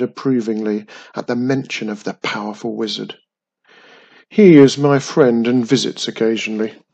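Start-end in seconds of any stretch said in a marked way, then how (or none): 4.3-6.8 lightly voiced giant, louder; measured words from a mighty castle; booming castle giant. A narrator's reading.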